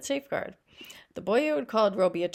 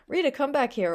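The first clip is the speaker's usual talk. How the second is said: higher and louder, a mother's sharp call; calling angrily; 7 semitones higher, 4 dB louder than usual. A narrator's reading. Mother calling her girl back through the crowd, angry. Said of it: "called angrily".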